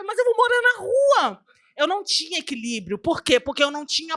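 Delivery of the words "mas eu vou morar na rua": high-pitched mock wail; retold tearful protest. Woman fearing she will live on the street, retold tearful protest. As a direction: plead as if crying, imitated. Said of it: "E eu chorava".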